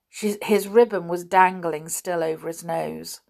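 ordinary delivery

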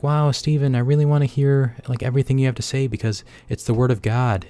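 high, gushing fan voice; mock adoring fan. Mocking his own fans, gushing high. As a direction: gush like a starstruck fan.

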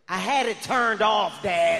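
put-on slow, loud, earnest child; a five-year-old explaining himself to dad; kid excuse. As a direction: plead it innocently.

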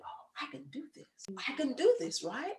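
whispered self-talk. Retold or imitated. Her inner thoughts.

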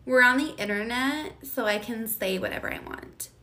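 sarcastic impression of a smug poster; a hint of a snotty troll justifying himself; mocking an internet troll. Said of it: "It's like, mm".

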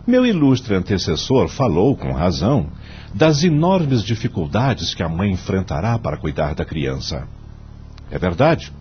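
measured, solemn judge delivering his vote; formal court speech. Acted. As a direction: argue the case gravely before the court.

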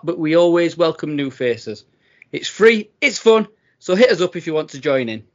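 lifted, energetic announcement read; promo read. Real, not acted. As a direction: pitch the challenge to listeners like an advert.

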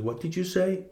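imitating a bully's high, menacing challenge. Drunk bully confronting the coach, mock menacing. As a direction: pitch it up as the big bully squaring off.

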